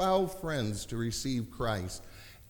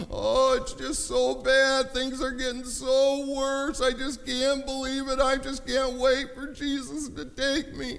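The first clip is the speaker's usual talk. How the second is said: whining Christian; 12 semitones higher, 6 dB louder than usual. Retold or imitated. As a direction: whimper like a calf in a snowstorm. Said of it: "sound like a whining calf in a snowstorm".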